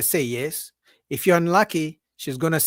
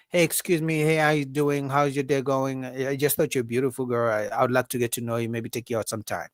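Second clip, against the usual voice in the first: usual pickup line; 2 semitones lower, 3 dB quieter than usual. Acted. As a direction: imitate a man politely asking a woman out. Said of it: "the usual line".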